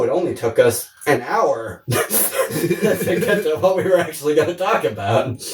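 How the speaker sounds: laughing through the words. Real, not acted. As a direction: giggle while you say it.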